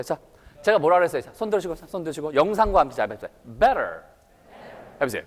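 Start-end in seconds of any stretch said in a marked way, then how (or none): 3.6-4.0 American "Better" with a flapped t; low American pronunciation model; American accent. Shown as a demonstration. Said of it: "미국식 발음을 하면 뭐예요?".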